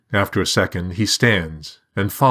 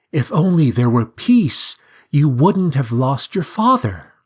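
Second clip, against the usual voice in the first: much higher, chirpy talking bird; high sing-song bird; 7 semitones higher, 4 dB louder than usual. A narrator's reading. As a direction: voice the bird with light curiosity. Bird character voice.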